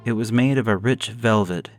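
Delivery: ordinary delivery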